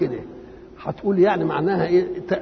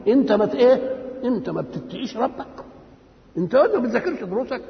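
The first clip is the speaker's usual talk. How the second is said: indignant surprise; 5 semitones higher than usual. Shown as a demonstration. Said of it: "يجيبها بالنفي".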